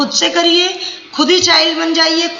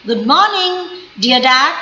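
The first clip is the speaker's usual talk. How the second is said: put-on child greeting dad. Shown as a demonstration. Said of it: "See my tone, my stress". (पिता से बच्चे का खुश अभिवादन)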